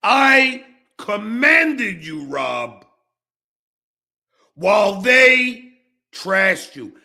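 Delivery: drawn out and pointed, rising; slow accusing. Real, not acted. Accusing Rob of betraying him, slow and pointed. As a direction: lay the charge out slowly.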